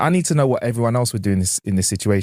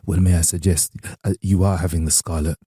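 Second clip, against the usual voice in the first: posh waiter; 4 semitones lower than usual. Retold or imitated. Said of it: "And he was like".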